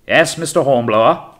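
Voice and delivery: loud, high captain's call. A narrator's reading. Captain answers from the cabin window, calling out. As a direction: call down firmly to the boat.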